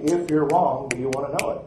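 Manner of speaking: retold firm challenge, weight on the first half; confrontational. Preacher retelling how he confronted a Hindu's theology, firm challenge. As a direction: put it to him squarely. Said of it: "I confronted his theology".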